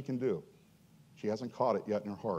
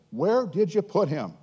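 higher, louder, slow demand; deep anger; 7 semitones higher, 5 dB louder than usual. Acted. Jesus asking the mourners, mild stern anger. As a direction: hold back anger as you ask. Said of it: "a deep anger welled up within him".

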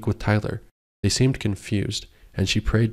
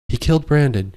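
yelling; 5 semitones higher than usual. Acted. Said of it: "she yelled".

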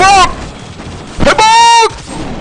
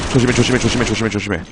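low, much softer repeated warnings; murmured warning; 11 semitones lower, 8 dB quieter, faster than usual. Real, not acted. Streamer to himself as enemies close in: soft, low murmured warning. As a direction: breathe the warnings under your voice.

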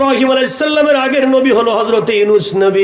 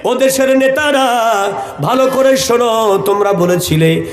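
melodic waz preaching. Acted. Preacher recounting a prophet's story to a congregation, melodic chant. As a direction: tell the story in long, chanted phrases.

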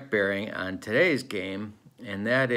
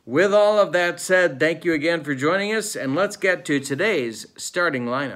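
higher, lifted announcer delivery; raised-pitch show host transition; announcer segue; 6 semitones higher, 5 dB louder than usual. Acted. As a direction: launch brightly into the starting lineup. Announces the move to lineups.

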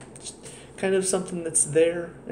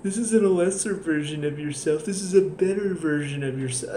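mock pleading therapist. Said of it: "she just turns around and".

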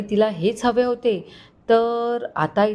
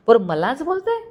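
flaring up; 6 semitones higher than usual. Acted. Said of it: "Avinash खूप भडकला".

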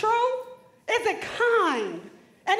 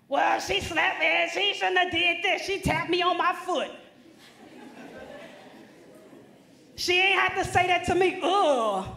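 a hammed-up student whining about being slapped, the start shouted; lightly voiced teen who blames everyone else; mock upset student; 2 semitones higher than usual. Speaker mocking a student who turns everything into an argument, indignant whine.

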